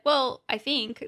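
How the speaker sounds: slow, drawn-out mock hedge; hedging disclaimer. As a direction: tack on a doubtful caveat, stretched out. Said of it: "we usually do disclaimers after".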